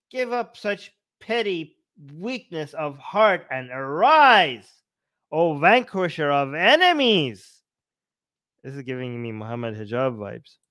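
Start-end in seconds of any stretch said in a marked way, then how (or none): 0.1-7.5 slow, theatrical proclamation; grand declamation. Acted. Krishna rousing Arjun to battle, grandly declaimed. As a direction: swell up on the key words.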